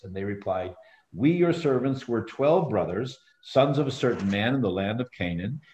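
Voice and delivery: measured read-aloud of a Bible story; scripture reading. A narrator's reading. Teacher reading Joseph's story to the group, scripture reading.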